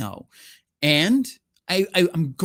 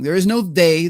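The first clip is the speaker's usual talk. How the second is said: no pounded hard and loud; forceful loud declaration; emphatic loud denial; 2 semitones higher, 7 dB louder than usual. Real, not acted. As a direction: slam the door on the idea. Hammering home his point.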